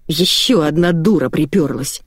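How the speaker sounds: usual speaking voice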